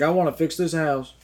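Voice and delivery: put-on a light, lazy Texan accent for the guy; mock Texan accent. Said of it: "giving him that, that fucking accent".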